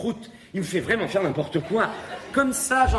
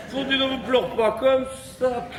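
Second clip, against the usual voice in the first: mother's voice; 6 semitones higher than usual. Acted. Mère parle à l'enfant.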